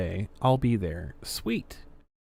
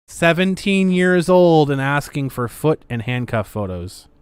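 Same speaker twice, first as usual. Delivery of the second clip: indignant; 2 semitones higher, 6 dB louder than usual. Real, not acted. Indignant at creepy chat requests.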